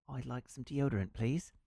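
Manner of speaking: attempted posh English accent. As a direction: put on an English gent voice. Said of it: "That was not British or English".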